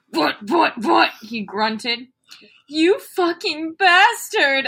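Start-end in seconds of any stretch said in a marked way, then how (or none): 0.1-1.1 a hammed-up grunted stammer; mock grunting. Shown as a demonstration. Reader acts out the grunted line, mock grunting. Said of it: "so I guess I'd be like". 2.7-4.7 slow, loud, high mock moan. A narrator's reading. Reader performs the fanfic line, slow mock moan. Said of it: "I moaned".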